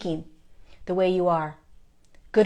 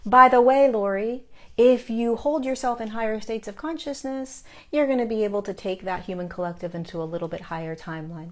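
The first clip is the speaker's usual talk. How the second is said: guides' casual reminder; 3 semitones higher than usual. Retold or imitated. Guides advising the speaker, lightly imitated casual reminder. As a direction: pass on advice as a light by-the-way. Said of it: "That's how they speak".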